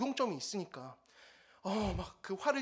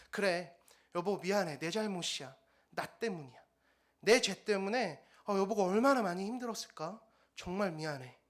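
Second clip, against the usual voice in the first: gentle apology; 2 semitones lower than usual. Retold or imitated. Husband apologizing to his wife.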